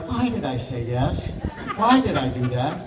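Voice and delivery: laughing regret. Retold or imitated. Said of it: "I'm like".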